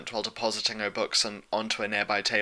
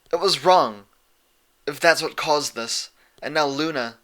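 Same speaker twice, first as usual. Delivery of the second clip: higher, louder, slowing anxious confession; anxious blurting; 5 semitones higher, 5 dB louder than usual. A narrator's reading. Twilight confessing to Celestia, cut off. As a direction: rush guilty words then trail off. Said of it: "Twilight blurted".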